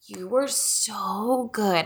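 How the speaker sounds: soft, very slow doting praise; imitated praise. Mom praising her unusually quiet child, softly imitated doting. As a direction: draw it out tenderly, as a retold compliment. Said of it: "she never praised me like this".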